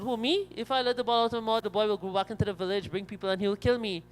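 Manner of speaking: high, urgent protest; acted worry of a cornered crocodile; alarmed objection. Crocodile alarmed at rabbit's request.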